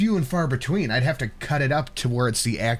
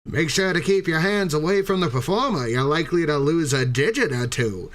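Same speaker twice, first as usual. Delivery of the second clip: put-on old-timey carnival barker. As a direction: step right up barker pitch. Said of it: "Do it in old-timey voice".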